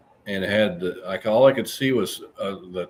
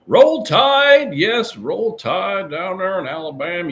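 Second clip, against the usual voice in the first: cheer; 10 semitones higher, 8 dB louder than usual. Real, not acted. Cheering for Alabama viewer.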